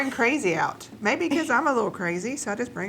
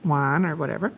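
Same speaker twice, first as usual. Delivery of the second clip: limerick reading; 3 semitones lower than usual. Acted. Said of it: "A limerick".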